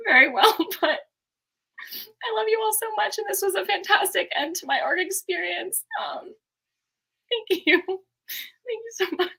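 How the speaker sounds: real tears close, voice rising high with small laughs; overwhelmed, fighting back tears through laughter; getting emotional. Real, not acted. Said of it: "I'm getting super emotional".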